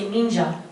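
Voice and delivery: "ninja" dropped in with Japanese sounds; Japanese pronunciation of ninja. Shown as a demonstration. Actor showing fans why it sounds weird, Japanese-style "ninja". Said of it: "it would sound weird".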